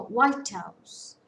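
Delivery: slow White House, WHITE punched; stress on first part. Shown as a demonstration. Teacher giving a noun example, first part stressed. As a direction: lean hard on WHITE in White House, let House fall. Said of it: "stress falls on the first part of the word".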